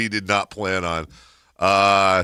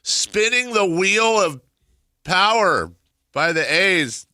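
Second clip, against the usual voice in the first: big slow announcer home run call; 12 semitones higher, 6 dB louder, slower than usual. Retold or imitated. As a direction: belt it out like play-by-play. Mimicking the team's announcer.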